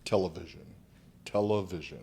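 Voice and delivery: "Television" said slowly and carefully; slowed-down word. Shown as a demonstration. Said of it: "really slow".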